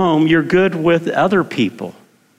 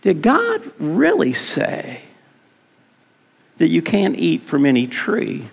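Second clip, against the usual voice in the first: sly serpent. Acted. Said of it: "this is what he says".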